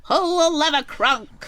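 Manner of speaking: high, loud theatrical command; film villain impression. Host quoting Emperor's New Groove at co-host, villain impression. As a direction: imitate a cartoon villain ordering a henchman.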